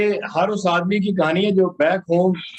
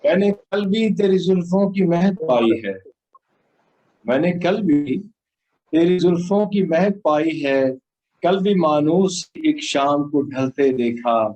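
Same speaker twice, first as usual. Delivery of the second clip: solemn, measured poem delivery; stately nazm recitation. Acted.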